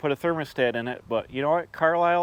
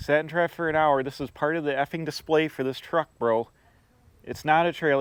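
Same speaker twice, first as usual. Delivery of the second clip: ordinary talk, nothing marked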